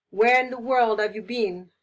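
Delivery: loud where in the world; strong feeling. Shown as a demonstration. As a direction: scold a late arrival. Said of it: "show different strong feelings".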